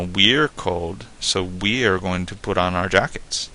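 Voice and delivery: "we" picked out with extra weight both times; emphasis on WE. Shown as a demonstration. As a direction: stress "We're" and "we", the people concerned. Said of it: "if you wanna emphasize".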